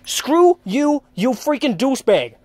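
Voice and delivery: quitting on the CEO, loud; telling him off. Retold or imitated. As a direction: storm out with the last word. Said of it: "I said".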